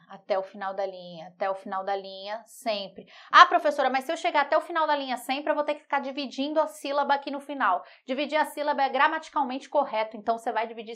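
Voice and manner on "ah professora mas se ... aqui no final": lightly voiced pupil, higher pitch; mock a student raising a problem; higher-pitched imitation of a protesting student; whining student objection.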